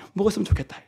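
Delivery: soft wish. Retold or imitated. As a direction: murmur it with longing. Tender wish voiced. (부드럽게 바라는 목소리)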